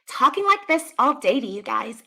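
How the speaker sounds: demonstrating a put-on high voice; fake high register. Shown as a demonstration. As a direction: mimic women faking a lighter register. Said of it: "That's not their real voice".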